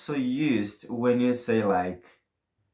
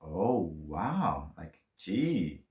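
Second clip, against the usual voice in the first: mild wow; 6 semitones lower, 3 dB quieter, much slower than usual. Shown as a demonstration. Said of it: "nossa means, like".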